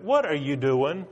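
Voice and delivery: donkey pleading with Balaam, high and loud; talking donkey. Acted. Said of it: "that donkey turning around looking at him and said".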